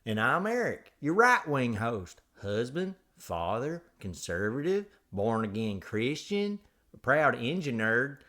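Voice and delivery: exaggerated folksy host spiel; hammed-up show intro. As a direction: roll out your titles with theatrical pride. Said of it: "do the whole show like that".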